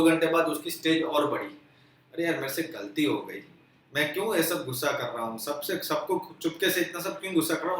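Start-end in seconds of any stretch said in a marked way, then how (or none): 2.1-7.8 softer remorseful musing. Retold or imitated. Husband's remorseful self-talk.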